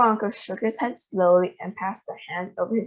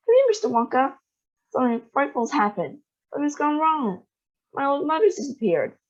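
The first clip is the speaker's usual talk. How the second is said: panicked calling; 7 semitones higher than usual. A narrator's reading. Mother shouting for Mister Wonka as her mother vanishes. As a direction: call for help in a panic.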